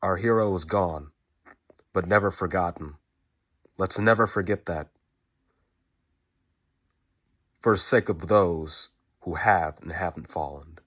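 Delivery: rallying tribute. Real, not acted. Rousing tribute to fallen hero.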